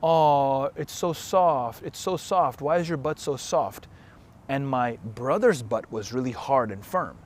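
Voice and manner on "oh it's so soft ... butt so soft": higher, drawn-out teasing coo; mock-cooing tease, pitched up; mocking mom. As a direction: imitate a mom poking fun, stretching the first words. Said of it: "make fun of me".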